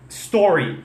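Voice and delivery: "story" from a bare S; correct story. Shown as a demonstration. Teacher drilling "story" with no E in front. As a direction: say "story" without a leading vowel. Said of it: "Tira esse E da frente".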